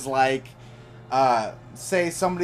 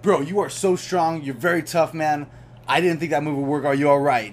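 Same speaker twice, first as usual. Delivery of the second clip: soothing; 3 dB louder than usual. Retold or imitated. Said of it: "I will lower myself and I was like".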